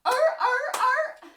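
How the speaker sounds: high barking oh; seal bark. Shown as a demonstration. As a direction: honk like a sea lion. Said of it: "whack your flippers together".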